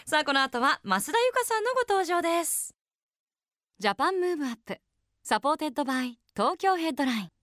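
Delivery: measured programme announcer read; radio announcer. Acted. Radio host introduces guest and sponsor to listeners, announcer style.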